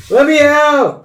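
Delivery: ogre voice breaking into laughter. Acted. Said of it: "In a very husky voice".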